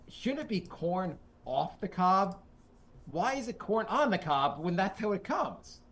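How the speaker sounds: lightly imitated slow stand-up delivery; Mitch Hedberg. Podcaster quoting a comedy bit, lightly imitated comedian. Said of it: "listen to the Mitch Hedberg, um, bit".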